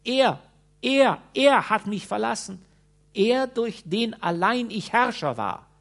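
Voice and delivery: high, loud lamenting wail. A narrator's reading. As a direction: wail it out in despair. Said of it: "jammerte der Flohbändiger".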